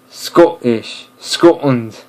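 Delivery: "Scottish", "Scotland" slowly, stopped at the T; slow, separated Scottish-style syllables in "Scottish" and "Scotland"; Scottish pronunciation. Shown as a demonstration. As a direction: demonstrate "Scottish" and "Scotland" with a Scottish T stop. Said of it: "Scottish accent, it will say".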